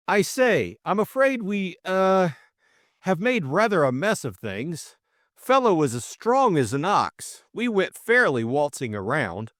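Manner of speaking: high, hesitant apology turning chatty; sheepish young gentleman. A narrator's reading. Jimmy looking round the wrecked room, sheepish. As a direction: start high and awkward, then ease down.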